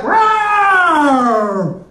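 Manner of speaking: hammed-up lion roar. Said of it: "And he'll be like".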